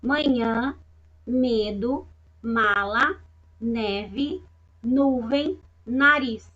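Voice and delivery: each word read alone with a rising tune; teacher reading nasal words aloud; nasal demo. Shown as a demonstration. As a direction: read the list slowly with the nasal sounds clear. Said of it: "Repitam aí com a Pro".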